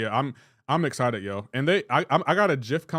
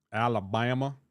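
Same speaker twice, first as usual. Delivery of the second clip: Forrest Gump. Acted. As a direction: stretch it out in a put-on Southern accent. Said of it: "I was imitating Forrest Gump".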